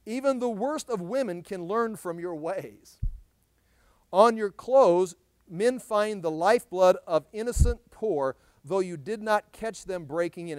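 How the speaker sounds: slow, emphatic preacher's reading; scripture reading. Acted. Preacher reading the verse to the congregation, slow and emphatic. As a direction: read it out slowly and forcefully.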